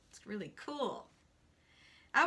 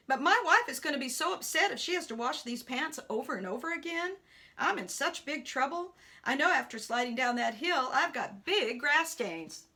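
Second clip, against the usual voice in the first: lightly voiced worried older golfer; fret, a touch raised, over trouble at home; fretting man; 4 dB louder than usual. Man dreads wife washing pants, mildly hammed-up fretting.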